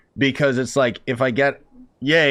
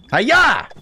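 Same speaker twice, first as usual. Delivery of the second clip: mock battle cry; 11 semitones higher, 6 dB louder than usual. Throwing beans at Itto.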